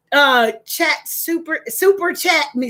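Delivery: stumbling over the words; words won't come out; tripping over words. Real, not acted. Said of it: "See how I can't even get it out?".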